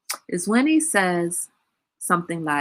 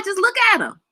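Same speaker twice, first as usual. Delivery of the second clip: blank stare; 13 semitones higher, faster than usual. Shown as a demonstration. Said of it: "Yeah, like that".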